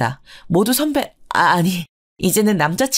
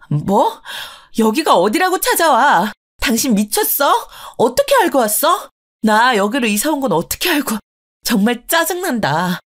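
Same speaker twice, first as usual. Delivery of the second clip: raised, higher voice, indignant and sharp; angry confrontation; 3 semitones higher than usual. Acted. Wife confronting the ex-husband who showed up uninvited, angry and raised. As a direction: snap at the unwanted ex-husband.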